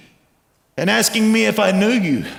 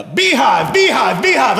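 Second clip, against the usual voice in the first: higher, urgent mock shout; excited shouting; 4 semitones higher, 4 dB louder than usual. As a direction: imitate someone running up with breathless news. Mary runs up crying out news.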